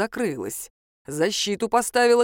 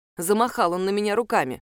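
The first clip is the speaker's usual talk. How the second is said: plain reading voice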